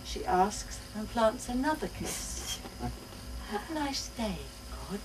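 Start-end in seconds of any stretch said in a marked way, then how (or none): 3.5-5.0 put-on chirpy child. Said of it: "chirps Tess".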